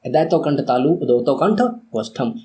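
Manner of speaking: steady chanting recitation of the formula; recitation drill. Shown as a demonstration. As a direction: recite it like a rote memory drill. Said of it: "मैं आपसे कहूँगा कि आप मेरे साथ repeat ज़रूर करें".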